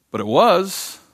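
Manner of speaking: "But it was" high and punched; emphatic rebuttal. Real, not acted. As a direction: land it hard as the counterpoint.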